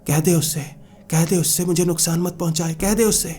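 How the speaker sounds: frightened beaten man begging for mercy; pleading. Retold or imitated. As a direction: beaten exorcist pleading in panic. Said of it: "छिला हुआ, पिटा हुआ और कह रहा".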